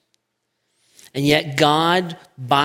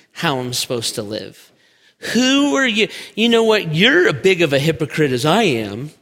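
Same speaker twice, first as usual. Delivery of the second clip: resentful retort; 2 semitones higher than usual. Acted. Pastor voicing a resentful man, a hint of defiant snap. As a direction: bristle back at the one telling you. Resentful listener rejecting truth.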